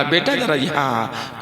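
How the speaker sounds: low, slow motherly coaxing; very loving. Retold or imitated. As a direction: imitate a mother gently drawing her son close. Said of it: "माँ ने बड़े प्यार से बोला". (बड़े प्यार से, धीमे बुलाती माँ)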